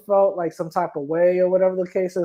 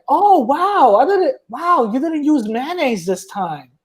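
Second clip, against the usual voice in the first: mock; 6 semitones higher, slower than usual. Mock comment to white people.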